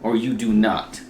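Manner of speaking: slow, loud, wise mentor voice; Yoda quote. Retold or imitated. Quoting Yoda to a friend, slow and grave. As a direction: lay it down slowly like a sage.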